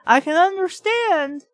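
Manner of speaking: mock telling off. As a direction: lay into him word by word. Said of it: "you can go over there and be like".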